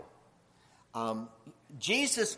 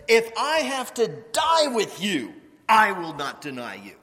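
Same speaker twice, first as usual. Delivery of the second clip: vehement vow; 4 semitones higher, 7 dB louder than usual. Acted. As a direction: swear it with force. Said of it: "So he spoke more vehemently".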